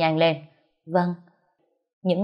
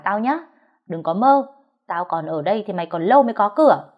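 threatening snarl. Acted. Thùy threatens the young mistress.

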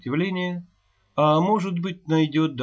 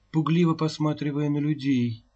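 ordinary delivery, nothing marked

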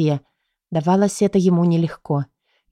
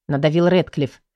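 usual speaking voice

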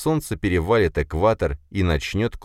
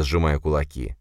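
plain reading voice

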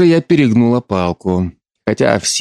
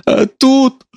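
high, tear-choked voice; mother sobbing to her daughter. Acted. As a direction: sob out the words. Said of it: "всхлипнула мать".

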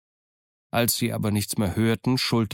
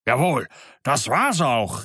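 slow, emphatic agreement; eager cry; 3 semitones higher, 3 dB louder, slower than usual. Acted. Morgan leaps up, eagerly agreeing with Silver. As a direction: jump up and call it out. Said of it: "rief Morgan und sprang auf".

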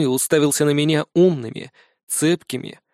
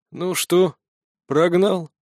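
put-on creaky old voice; 3 semitones higher, slower than usual. A narrator's reading. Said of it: "раздался из темноты скрипучий голос".

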